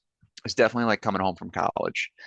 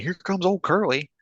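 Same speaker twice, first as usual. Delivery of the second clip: baseball announcer; 10 semitones higher than usual. Retold or imitated. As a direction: call it like an old radio announcer. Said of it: "talks like a baseball announcer".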